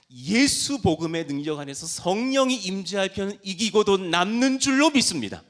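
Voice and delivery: very loud, high pulpit declaration; fervent preacher's shout building to the end; impassioned proclamation. Real, not acted. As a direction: proclaim it at full force. Climactic proclamation of faith.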